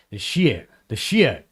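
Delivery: "shit" said as a long "shee-it"; imitated pronunciation. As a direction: stretch the vowel of "shit" to ee. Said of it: "as he said it".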